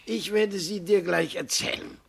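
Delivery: a hint of an old man settling the boy in; old great-grandfather. Great-grandfather telling the boy to sit comfortably, lightly voiced.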